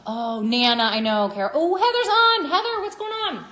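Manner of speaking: real high, loud welcome; excited greeting. Real, not acted. Host greeting viewers joining live, high excited calls. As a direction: call out high to friends just spotted.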